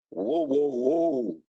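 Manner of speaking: high, drawn-out "whoa, whoa, whoa"; retold startled objection, voice jumping way up; taken-aback whoa. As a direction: stop him short with long, high-pitched whoas. Acting out his reply to insult.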